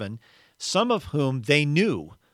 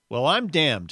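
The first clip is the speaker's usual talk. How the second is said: indignant ghost; 3 semitones higher, 4 dB louder than usual. Acted. Indignant Big Ghost meets murderer.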